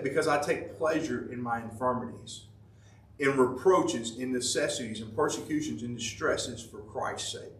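hushed scripture quote; quiet recitation. Acted. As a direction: read it reverently, fading. Paul quoted about infirmities.

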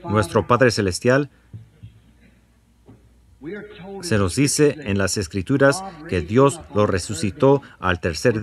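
earnest spoken prayer to the Father; earnest congregational prayer. Acted. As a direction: pray it steadily for the congregation. Leads a prayer after bowing heads.

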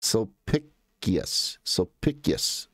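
slow, syllable-by-syllable "Sulpicius" as sol-PICK-ee-us; trial pronunciation. Shown as a demonstration. Working out the Roman name aloud, slow trial "Sulpicius" as sol-PICK-ee-us. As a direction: sound out "Sulpicius" carefully, stress on PICK. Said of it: "I think it's a sh sound".

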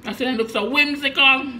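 muffled words around food; speaking while biting food. Real, not acted. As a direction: mouth full of fritter. Seen 0: Fritter held at lips, bitten into mid-sentence.

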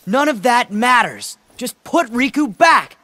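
angry demand. Acted. Sora demanding the villain give Riku back, angry. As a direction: snap the demand at him.

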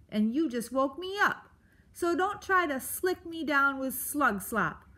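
grouchy creature, high and testy; Aerith. Acted. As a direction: grumble it like someone just woken up. Voices Aerith, grumpy porcupine.

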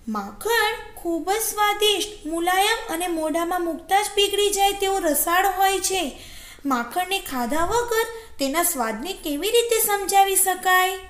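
high-pitched jackal character voice; crafty little storybook jackal, enticing; tempting jackal. Acted. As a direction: sell the treat in a high, persuasive voice.

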